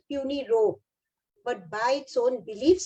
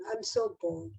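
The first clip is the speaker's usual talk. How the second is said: higher, softer, sighing whine; whiny bored child; 9 semitones higher, 8 dB quieter than usual. Retold or imitated. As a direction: let the complaint drift up and fade. Bored child voiced in class.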